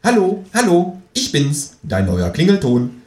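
high, loud, squawking phone voice; quacking ringtone. A narrator's reading. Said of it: "quäkt es aus dessen Telefon".

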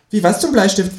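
high-pitched kangaroo; kangaroo character voice. A narrator's reading. Kangaroo asking for an example, high cartoon voice. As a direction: ask as a cheeky talking kangaroo. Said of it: "fragt das Känguru".

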